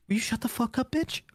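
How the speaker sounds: high, irritated outburst at a chatty companion; exasperated snap. Retold or imitated. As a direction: snap at her to shut up. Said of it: "And it's like".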